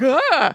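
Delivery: short mock-frightened "ah"; jokey scared yelp. Crew member seeing Robert, jokey scared yelp. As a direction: fake a little startled cry. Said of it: "like, jokey scared".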